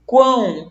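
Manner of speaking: "quão" resonating fully in the nose; nasal pronunciation. Shown as a demonstration. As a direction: let "quão" buzz out through mouth and nose. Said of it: "pronunciei totalmente trepidação aqui nas vias nasais".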